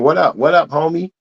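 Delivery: put-on American accent. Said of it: "Give us the American accent".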